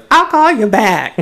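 high, wobbly mock sob; shaky voice. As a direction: quiver through it like she's near tears. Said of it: "Doctor Jackie says".

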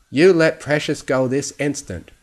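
put-on forceful old pony reprimand; stern order. A narrator's reading. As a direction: order it with authority. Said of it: "looking down at Fluttershy sternly".

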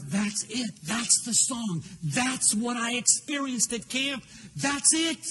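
earnest eureka, mounting steadily; excited realization. Retold or imitated. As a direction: climb in pitch with each discovery, stretching the words. Retelling his sudden realization of the song.

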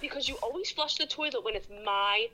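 put-on whiny little girl, then slowing down; bossy little princess. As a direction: complain like a stroppy toddler. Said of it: "she stomped her foot".

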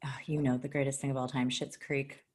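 unvoiced reverent whisper. Real, not acted. Recommending a favorite show to Ryan, whispered. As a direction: whisper it like a sacred secret.

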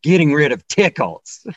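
a hint of a put-on toe voice; talking toes. Toes answering their owner, lightly acted and strained.

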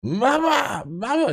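put-on high, loud toddler wail for mama; imitating wailing toddler. Dad imitates his son crying for mama at night. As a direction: wail like a toddler who wants his mom. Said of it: "he's just like".

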